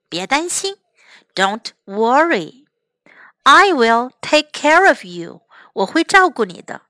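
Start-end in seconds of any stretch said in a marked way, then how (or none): 1.3-2.7 whispered. Shown as a demonstration. Teacher demonstrating a whispered reassurance to the class. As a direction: breathe the words Don't worry with no voice.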